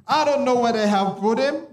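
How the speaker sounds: a touch of heartbreak, acting as Mary; brokenhearted Mary. Mary telling the angels her Lord is gone, mildly brokenhearted.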